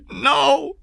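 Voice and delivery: high, loud cry of horror; scream. A narrator's reading. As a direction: scream in refusal. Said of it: "Diane screamed".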